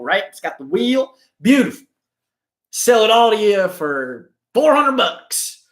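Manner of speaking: butter up the buyer and upsell; slick salesman. Retold or imitated. Seller upselling the customer.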